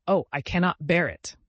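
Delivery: anguished, emphatic exclamation; distressed lament. A narrator's reading. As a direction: moan it as if overwhelmed.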